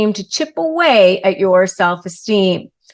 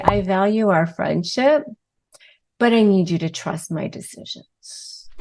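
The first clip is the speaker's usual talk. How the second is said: calm firm boundary; 3 dB quieter than usual. Shown as a demonstration. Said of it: "and you say".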